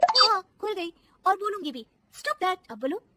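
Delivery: loud high defiant answer; defiant retort. Acted. Daughter-in-law defies mother-in-law, loud defiant. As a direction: throw it back defiantly.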